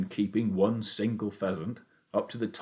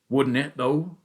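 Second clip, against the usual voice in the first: louder, eager, worked-up father; excited shout; 5 semitones higher, 6 dB louder, slower than usual. A narrator's reading. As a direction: shout it out, carried away. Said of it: "he shouted".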